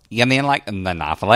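lightly voiced valley girl question; a hint of valley girl, rising. Shown as a demonstration. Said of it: "I should have said that like a Valley girl".

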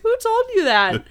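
high, pointed mock mom demand; high mock mom asking who said so; suspicious mom. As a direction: play the mom sniffing out the lie. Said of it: "She was like".

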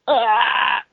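high dying yell; death scream. Shown as a demonstration. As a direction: scream as a pike hits your skull. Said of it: "death scream".

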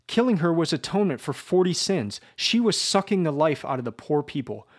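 indignant, mounting fury; furious justification. Acted. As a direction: defend the killing in a rage. Raskolnikov furiously justifies the murder.

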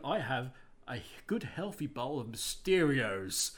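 mock cereal ad pitch; cereal mascot. Cereal ad voice parody.

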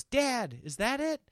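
put-on high, hopeful child voice; kid's voice. Oldest child spotting the sign, high and eager. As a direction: pipe up like an eager kid. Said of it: "my oldest goes".

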